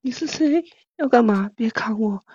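mildly coy reading; half-hearted flirty copy; coquettish attempt. Player copying the co-host's demo, mildly coquettish. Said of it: "骚一点".

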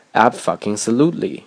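"abfucking-solutely" with the swear wedged in after "ab"; split-word emphasis. Shown as a demonstration. Teacher quoting Hollywood film speech, "abfucking-solutely" emphatically split. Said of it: "一个单词确实是可以分开说出来的".

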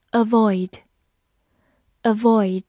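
slow, clear vocabulary repeat; slow model word. Shown as a demonstration. Teacher modelling new words slowly for the class. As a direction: say each word slowly twice. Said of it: "teacher models vocabulary slowly".

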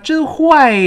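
high, loud "真坏", drawing out its ending; final glide shown. Shown as a demonstration. Teacher pointing out the final sound, "真坏" stretched. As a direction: hold the i glide closing "坏". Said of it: "最后刚好出现个耶耶这个声音".

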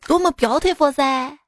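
put-on street hawker selling to a foreigner in Xi'an-accented broken English; Xi'an hawker touting to a tourist, hammed-up accent; Xi'an vendor accent. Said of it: "就是西安普通话夹杂着".

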